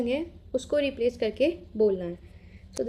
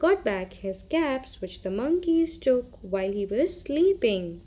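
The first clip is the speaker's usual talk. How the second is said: put-on slow storytelling for small children; story narration; much slower than usual. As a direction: read it to children with lilting emphasis.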